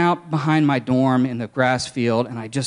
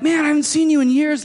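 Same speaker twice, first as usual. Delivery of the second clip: cheery greeting; 12 semitones higher, 3 dB louder than usual. Retold or imitated. Friend greets him in car.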